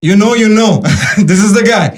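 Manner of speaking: loud, high, laughing hype to viewers. Real, not acted. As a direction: laugh while pointing him out.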